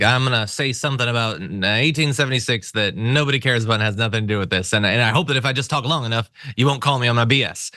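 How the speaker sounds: lightly put-on Texan accent. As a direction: ramble on like a Texan politician, Texan accent. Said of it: "And I do love your Texan accent".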